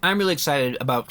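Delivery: talking with a mouthful; speaking while chewing popcorn; munching popcorn. Real, not acted. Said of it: "sorry, I'm eating popcorn".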